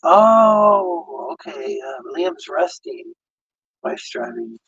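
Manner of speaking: muffled underwater sound. Real, not acted. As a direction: voice garbled like underwater. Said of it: "I sound like I'm underwater".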